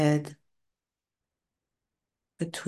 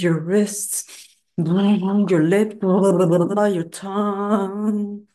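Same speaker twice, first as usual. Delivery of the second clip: shaking voice; 3 semitones higher, slower than usual. Shown as a demonstration. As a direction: voice rattling while the body shakes. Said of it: "Making noise just like me".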